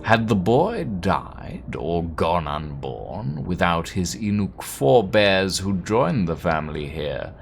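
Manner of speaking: hushed, deliberate telling of a tale; story narration. Acted. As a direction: let the suspense hang between phrases. Reads game narration.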